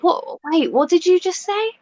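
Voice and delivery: high-pitched mock confusion; baffled mock question. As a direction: imitate someone totally thrown. Acts out baffled listener's reply.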